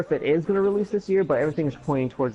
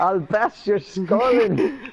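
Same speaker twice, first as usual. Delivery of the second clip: put-on glasgow street accent; 5 semitones higher, much slower than usual. Mock Glasgow street threats.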